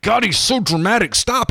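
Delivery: high-pitched, fed-up plea to stop; exasperated groan. Retold or imitated. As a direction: roll your eyes at the dramatic anchor. Mocking dramatic newsreader to wife.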